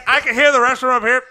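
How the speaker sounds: loud, fast announcer imitation; mock announcer report. Host imitating announcer overhearing refs, loud mock announcer report. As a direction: rattle it out loudly, imitating the announcer.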